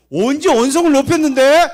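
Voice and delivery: high, very loud indignant mock yell; acted quarrel outburst. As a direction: shout back in hammed-up protest. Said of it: "언성을 왜 이렇게 높여?".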